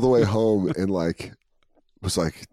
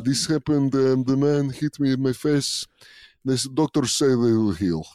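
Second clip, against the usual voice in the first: lightly put-on Russian fighter voice; mock Russian accent; 2 semitones higher than usual. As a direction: play a drunk fake Russian fighter. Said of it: "doing a Russian accent".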